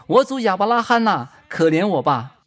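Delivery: the rich man in torment begging Abraham; crying out. Acted. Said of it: "他喊着说".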